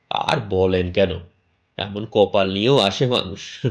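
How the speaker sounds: chatty local landlord pushing a sale; bald man selling a house. Acted. Bald stranger pitching the house to the narrator, lightly voiced.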